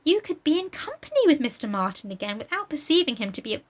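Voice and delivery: a hint of a condescending lady; lofty Emma. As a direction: lecture her sweetly from above. Reads Emma's long speech.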